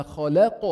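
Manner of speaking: خلق with a bouncing final qaf; qalqalah echo. Shown as a demonstration. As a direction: release the end of خلق with a slight vibration. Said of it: "هذه هي القلقلة".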